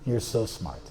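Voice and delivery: quiet, calm reply. Retold or imitated. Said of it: "the sadhu let go and said".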